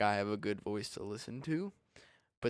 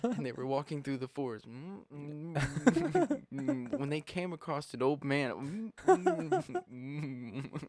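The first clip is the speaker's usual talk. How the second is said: muffled audiobook; 3 semitones higher, 3 dB quieter, slower than usual. Shown as a demonstration. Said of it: "You're just gonna hear it muffled".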